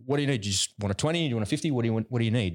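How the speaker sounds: What do you need, asked high and bright; keen to hand over money, pitch lifted; eager generous dad. Retold or imitated. Dad offering his daughter cash, eager and high. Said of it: "And I'll say to her".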